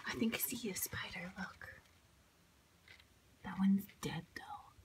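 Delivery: hushed voice by the spiders; whisper, don't scare them. Real, not acted. Quiet in barn near spiders.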